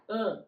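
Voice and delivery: "Mm" as an isolated nasal A; nasal A sound. Shown as a demonstration. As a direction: hum "Mm" through the nose as a nasal vowel. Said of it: "esa A nasal".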